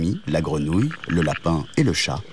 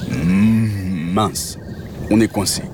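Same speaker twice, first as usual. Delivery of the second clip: long cow hum, then plain words; lightly voiced mooing cow; cow character; much slower than usual. Cow realises they're stuck, humming cow voice. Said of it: "dit la vache".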